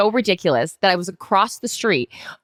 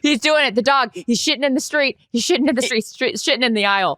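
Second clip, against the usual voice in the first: excited; 5 semitones higher than usual. Real, not acted. Mocking sick dog, laughing.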